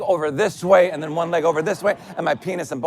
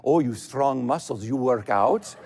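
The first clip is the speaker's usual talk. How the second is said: put-on Russian accent; 3 semitones lower, slower than usual. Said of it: "I can't do a Russian accent".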